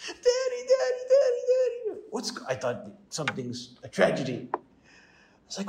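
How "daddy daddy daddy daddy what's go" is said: put-on high wailing little-girl cry, sobbing out daddy; imitating crying child. Little daughter wailing to her dad from the back seat, crying. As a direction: copy a five-year-old bawling for her father. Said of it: "The five-year-old starts crying".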